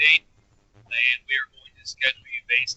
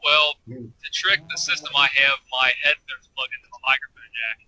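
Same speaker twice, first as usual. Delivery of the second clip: tin can sound. Real, not acted. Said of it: "You sound like you're in a tin can".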